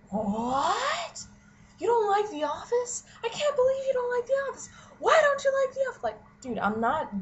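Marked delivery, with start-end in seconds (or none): 0.1-6.0 high, crying mock disbelief; shocked whiny friend. Mocking the friend who loves The Office, crying disbelief. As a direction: wail it like the friend can't believe it. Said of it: "and he's like".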